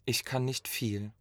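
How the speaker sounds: a soft whispered admission. Acted. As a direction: breathe it out as a whisper. Staged poem, hushed confession.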